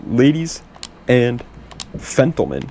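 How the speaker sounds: breathless, panting between words; out of breath. Real, not acted. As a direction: talk while catching your breath. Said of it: "Sorry, I'm out of breath".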